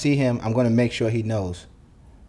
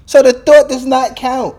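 slow angry insistence; 12 semitones higher, 9 dB louder, slower than usual. Real, not acted. Ranting about the melted cake.

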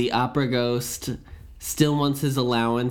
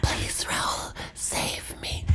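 hushed, breathy whisper; mock whisper; 6 semitones higher, 6 dB quieter, slower than usual. Mocking the heroine's lines to the friends, in a mock whisper. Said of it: "I feel like I'm doing A S M R".

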